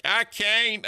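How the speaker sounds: high, strained mock despair; squeaky hopeless whine; imitating Rastov. Streamer voicing Rastov stuck in the water, high mock whine. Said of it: "he's probably like".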